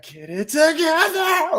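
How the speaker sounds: mock childbirth shriek, slow and very high; birthing squeal. Friend showing how her voice sounded, birthing squeal. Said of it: "giving birth, scr-, like, squeal".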